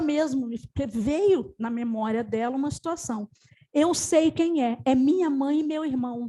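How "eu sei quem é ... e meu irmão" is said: tearful realization. Retold or imitated. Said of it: "disparou a chorar".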